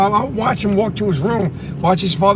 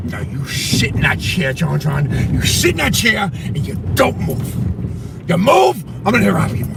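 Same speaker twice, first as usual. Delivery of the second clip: strict father threat. Retold or imitated. Father warning John John not to move, stern. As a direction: lay down the law like a scary dad. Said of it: "His father would tell him".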